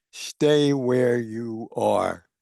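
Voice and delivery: terse reply that shuts the request down; curt dismissal. Retold or imitated. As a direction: lay it down word by word, final. Curt reply message to Paige.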